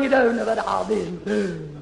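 theatrical diva moaning "you don't know what I've been through" with a laugh; hammed-up Bankhead lament; Tallulah Bankhead. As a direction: grande dame dramatizing her ordeal. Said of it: "Great actresses like Tallulah Bankhead".

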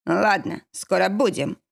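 ordinary delivery

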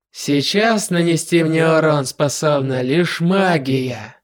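cold, slow demon lord; measured menace, unhurried; slow villain voice. Acted.

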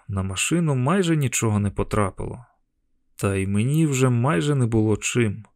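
plain reading voice

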